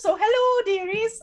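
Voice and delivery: put-on very high-pitched, loud old nanny voice. Introducing themselves at the start of a podcast: Mrs. Doubtfire voice. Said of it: "I don't know why I sound like Miss Doubtfire".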